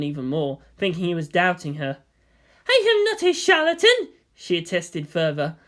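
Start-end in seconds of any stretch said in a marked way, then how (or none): 2.7-4.1 high, hurt protest; tinged with hurt. A narrator's reading. Guide insists to the laughing boy, hurt. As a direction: defend yourself, wounded. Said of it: "her voice tinged with hurt".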